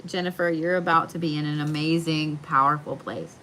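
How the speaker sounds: words stretched through a yawn; a mild yawn pulling the words. Real, not acted. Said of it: "And then me yawning".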